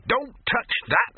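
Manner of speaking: high, loud cry to stop him; slow, high, urgent shout; sharp warning shout. Acted. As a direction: yell to stop a hand mid-reach. Gaffer snaps at Victor.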